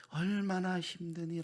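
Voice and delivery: slow, lifted, gently pleading repeat; tender repeat. Acted. God's question repeated, rising.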